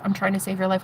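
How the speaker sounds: hushed plea. Retold or imitated. Hushing the newcomer.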